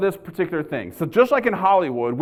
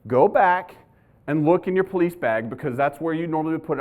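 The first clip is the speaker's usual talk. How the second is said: patient wife, lightly imitated; calming. Wife sending husband back to his bag, calming. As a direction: reassure in short, measured phrases. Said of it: "what to do to calm me down".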